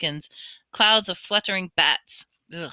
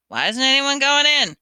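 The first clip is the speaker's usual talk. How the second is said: curious; 7 semitones higher, 6 dB louder than usual. A narrator's reading. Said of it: "asked Ron curiously".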